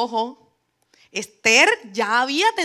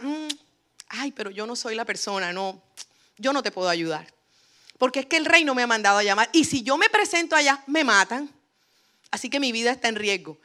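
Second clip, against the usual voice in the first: whiny excuses. Retold or imitated. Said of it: "como con excusas".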